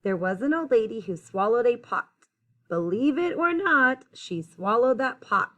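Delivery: clear, lilting rhymed storytelling; picture-book read-aloud. A narrator's reading. Reader telling children about the old lady, lilting storytime read-aloud. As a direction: read the rhyme out to young listeners.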